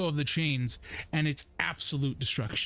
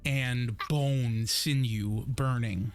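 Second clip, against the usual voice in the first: slow ominous narration; much slower than usual. Acted. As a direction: drag out each word, grim scene-setting. GM describes burning flesh smell.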